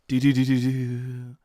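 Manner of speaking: sing-out bell noise; imitated school bell. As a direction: mimic a ringing bell with the voice. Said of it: "The bell goes".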